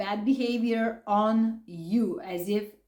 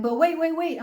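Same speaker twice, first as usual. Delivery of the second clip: incredulous; 6 semitones higher, faster than usual. Retold or imitated. Catching him in the lie.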